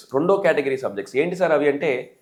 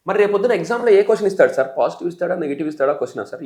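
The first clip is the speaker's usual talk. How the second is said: student asking; 3 semitones higher than usual. Pretend. Imagined student asks about exam.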